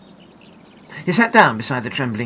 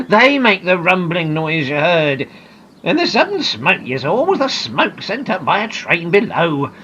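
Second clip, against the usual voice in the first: louder, slower, chuckling explanation; kindly naturalist reassuring a scared girl; amused kind man; 4 semitones higher, 6 dB louder than usual. Acted. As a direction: gently laugh her fear away. Luffy explains the tunnels.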